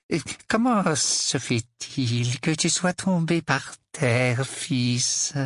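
slow, sickbed softness, laid on thick; unnatural gentleness. A narrator's reading. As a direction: ask as if he were gravely ill. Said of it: "avec une douceur qui n'avait rien de naturel". (douceur forcée, peu naturelle)

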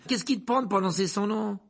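shocked scolding. A narrator's reading. Conductor to passenger who spoke the name, shocked scolding. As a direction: scold him in alarm.

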